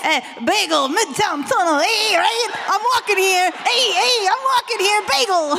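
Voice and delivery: a hammed-up New York dad accent. Shown as a demonstration. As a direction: lay on a cartoon New York accent, loose and brash. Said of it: "give us a taste of the dad's accent".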